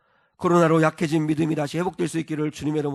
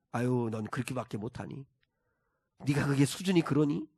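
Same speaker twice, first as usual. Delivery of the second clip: softer, condescending scolding; mock belittling; 3 semitones lower, 5 dB quieter than usual. Preacher voicing a mocking, belittling Lord to show contrast. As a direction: belittle them with a sneer. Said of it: "이렇게 조롱하시는 분이 아니시라는 거죠".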